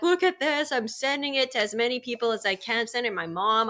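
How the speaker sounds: high, loud, eager sharing; bubbling over with glee; wife showing husband a funny video; excited. Retold or imitated. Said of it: "I'm like".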